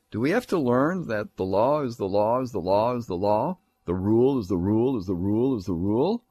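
rhythmic, looping recitation; mocking singsong. Nobles asking if they have to learn, mocking singsong. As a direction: rattle the repeats round in a mock-weary loop.

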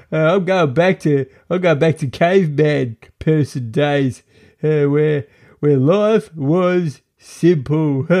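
high-pitched, grumbling mock caveman. Podcaster imagining a cave person dumped in twenty twenty-one, caveman voice. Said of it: "my best caveman, cave person voice".

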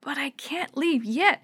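slow private thinking voice; inner thought. A narrator's reading. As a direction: think it to yourself, worried. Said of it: "he thought".

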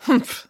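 short, high, doubtful humph; suspicious humph. A narrator's reading. Nanny Piggins doubts the casting director, suspicious humph. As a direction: huff in suspicion. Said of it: "still feeling suspicious".

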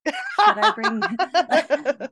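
playfully imitating her own eager self; laughing mock eagerness. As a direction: laugh through the eager questions. Eager friend, laughing through quote.

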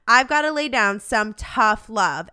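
love given the weight, tough said lightly; stress on love. Shown as a demonstration. Host giving listeners tough love, stressing love. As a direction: lean on the word love in tough love. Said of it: "Emphasis on the word love".

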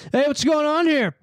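high, slow mock officer; put-on self-important cop greeting; dorky cop tone. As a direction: roll up on the scene like a dorky cop. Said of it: "they always have that, like, tone".

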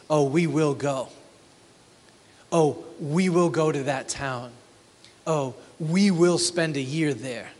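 mild smug boast, stress on "we" and "will"; a touch of swagger; arrogant boasting. Retold or imitated. Merchants boast to each other, mildly smug. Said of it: "the presumption and the pride and the arrogance".

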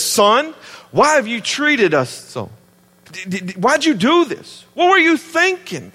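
exasperated mom scolding her son, pitch climbing; a mother at her wits' end; frustrated, scolding mom voice rising to a high cry. Retold or imitated. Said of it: "You see the frustration in her voice?".

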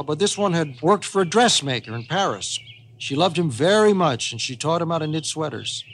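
animated, matter-of-course storyteller's lilt; grandpa explaining tall tale. Acted. Grandpa defending his knitting bear to Molly, lightly animated.

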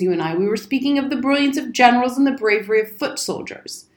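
high, loud, sarcastic questioning easing into lecture; pompous military outburst; blustering old soldier, indignant. Acted. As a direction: scoff and pull rank loudly. Old soldier scolds boy indignantly.

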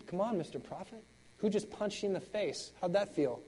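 mocking taunt. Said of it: "just mocking him".

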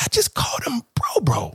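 dismayed whisper; hushed horror at himself; mock-mortified whisper. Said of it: "I was so mad".

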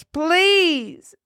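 high, drawn-out plea; pleading. A narrator's reading. Condemned girl tied to the cross, high pleading. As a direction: stretch it out, begging high. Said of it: "she pleaded".

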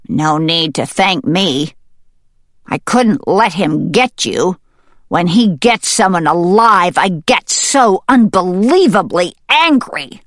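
mallard's earnest voice, growing heated; a touch of anger building to the end; lightly voiced mallard, getting worked up; mallard friend. Mallard speaks to rescued hen.

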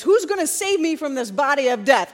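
mild retold cry of desperation. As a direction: call out for help, urgently. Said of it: "he says".

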